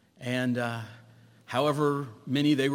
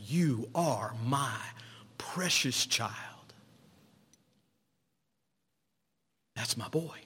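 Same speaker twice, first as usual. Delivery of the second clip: slow, hushed whisper of tenderness; whispered voice of God; slower than usual. Retold or imitated. God speaking to the listener, slow tender whisper. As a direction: breathe it gently to a child. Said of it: "the voice of God say".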